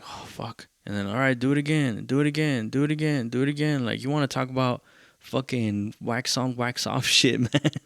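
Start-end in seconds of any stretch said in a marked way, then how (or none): 0.0-0.7 whispered, weary groan of a reaction; very soft, airy exasperation; retold dismay. Retold dismay at doing another take. 1.1-3.8 relentless producer, retold. Retold producer demanding repeated takes.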